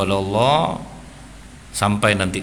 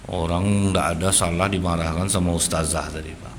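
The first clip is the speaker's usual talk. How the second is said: quiet, low and calm, no tears; calm telling; 5 semitones lower, 4 dB quieter than usual. Retold or imitated. Child calmly telling father what happened, quiet and calm. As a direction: tell it softly and steadily. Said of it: "dia cerita dengan tenang, tanpa tangisan".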